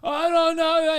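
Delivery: loud, high frantic reply; imitating panicked man. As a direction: blurt it out in mock panic. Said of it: "he's fucking panicking".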